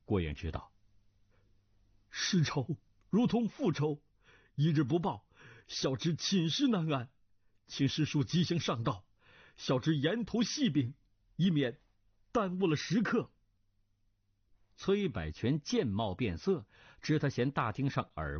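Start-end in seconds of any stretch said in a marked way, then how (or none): 2.1-13.3 urgent avenging nephew. Acted. Nephew begging his master uncle to act on revenge, urgent. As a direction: plead urgently, pitched up.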